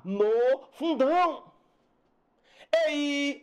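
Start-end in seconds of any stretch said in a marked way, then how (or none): 2.9-3.4 "Ei" held high and level; open diphthong mistaken. Shown as a demonstration. Teacher showing a diphthong to reject, "Ei" held high. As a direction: hold "Ei" long on a high note. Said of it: "ei não".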